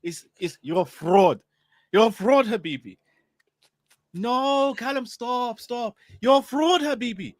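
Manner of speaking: put-on Arab accent, trailing softly. Shown as a demonstration. Copying his friend for the chat to judge, Arab accent. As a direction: imitate an Arab friend with a rolled R. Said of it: "You speak Arab for fifteen seconds".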